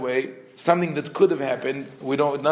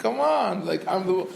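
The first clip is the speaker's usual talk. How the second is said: smug boast; 5 semitones higher than usual. Retold or imitated. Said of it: "He's like".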